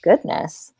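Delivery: whispered goodness. Real, not acted. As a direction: breathe it out unvoiced. Breathy aside.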